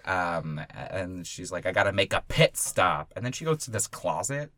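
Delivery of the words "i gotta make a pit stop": put-on old lady voice. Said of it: "her old lady voice".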